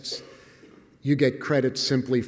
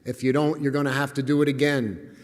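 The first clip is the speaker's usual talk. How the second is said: higher-pitched mock coach's shout; imitated coach yelling; 3 semitones higher, 4 dB louder than usual. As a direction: bellow the first word like a gym coach, then ease into a raised lecture. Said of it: "The coach was yelling at us".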